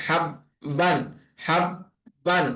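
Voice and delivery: হাব বান split so the ব sounds twice; doubled consonant. Shown as a demonstration. Teacher shows students the ব said twice in হাব বান. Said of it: "দুইবার উচ্চারণ হচ্ছে".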